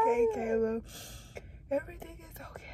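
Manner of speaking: high, fading to a soft murmur; tearful self-soothing. Real, not acted. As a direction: comfort yourself softly through tears. Soothing self while crying.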